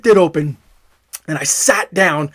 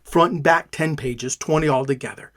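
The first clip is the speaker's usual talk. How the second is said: soft repeat; 3 semitones lower, 6 dB quieter than usual. Real, not acted. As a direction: repeat it softer and lower, to yourself. Repeats count, drops much softer.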